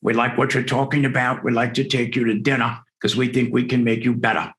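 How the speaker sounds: attempted South African accent, drifting Australian. Star lecturer inviting a young speaker to dinner, imitated South African accent. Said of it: "goes in his great South African accent".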